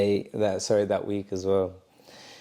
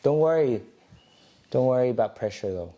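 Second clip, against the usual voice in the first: imitating coach Sam. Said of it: "the funny way that she ended it".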